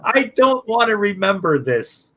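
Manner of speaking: imitated desperate plea. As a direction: stretch each word, imitating a woman in labor. Retelling a woman in labor.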